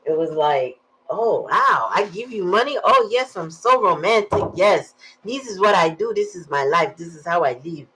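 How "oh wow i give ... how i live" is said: put-on excited boyfriend. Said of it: "He got excited".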